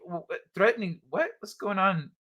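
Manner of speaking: mildly imitated bewilderment; confused host. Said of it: "They were confused".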